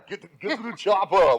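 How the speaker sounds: loud, high Austrian action-hero shout; hammed-up Austrian movie-hero accent; mock Austrian accent. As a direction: bellow it like an Austrian action star. Imitating famous Austrian movie line.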